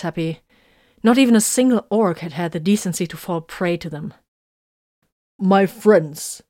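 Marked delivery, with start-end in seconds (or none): 5.4-6.4 a rousing call to friends. Acted. Techmarine calls his squad to attention, loud and proud. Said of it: "the Techmarine called".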